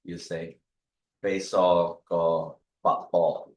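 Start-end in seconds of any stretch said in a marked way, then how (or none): 1.2-3.5 Beso con papá said very slowly; slow learner attempt. Shown as a demonstration. Learner trying a Kiowa phrase, very slow. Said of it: "So if I was gonna say".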